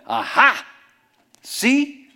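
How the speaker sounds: loud, high, triumphant gotcha; mock gotcha accusation. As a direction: pounce on him like you caught him out. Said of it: "And he went".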